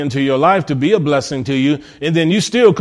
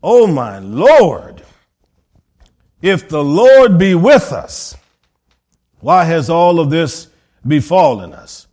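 plaintive lament; 4 dB louder, slower than usual. Acted. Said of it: "Listen to how he responded".

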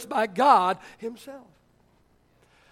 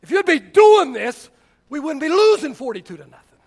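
coach yelling; 2 semitones higher, 6 dB louder than usual. Retold or imitated. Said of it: "got in my face and says".

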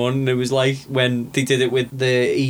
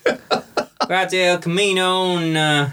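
put-on higher-pitched redneck Trump voter accent; put-on American redneck accent; 5 semitones higher than usual. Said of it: "a compliment on one of my accents".

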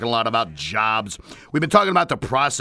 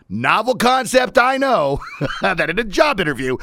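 sarcastic; 7 semitones higher than usual. Acted. Sarcastic mock revelation.

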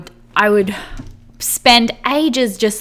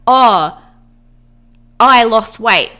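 excited brag; 6 dB louder, slower than usual. Retold or imitated. Friend bragging about weight loss.

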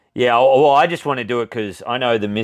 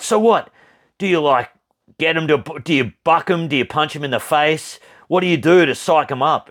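eager questioning; 5 semitones higher than usual. Retold or imitated. Retold eager questions to the breeder.

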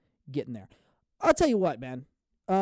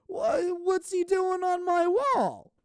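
high, slow mock comedian; drawn-out silly rhyme; hammed-up punchline; rhyme gag; 12 semitones higher, 4 dB louder, slower than usual. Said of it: "Better Call Saul".

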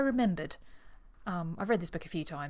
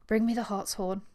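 put-on failing accents; 3 semitones higher, 3 dB louder than usual. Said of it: "begged Miss Thane in failing accents".

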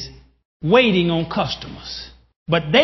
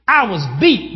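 ordinary talk, nothing marked

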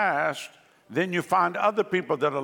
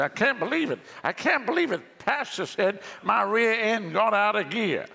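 mock disbelief; 4 semitones higher than usual. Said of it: "You say".

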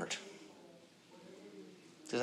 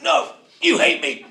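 put-on higher, louder, slow sulky kid voice; sulky child; 12 semitones higher, 10 dB louder than usual. A punished child sulking at the parent. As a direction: whine it like a hurt child.

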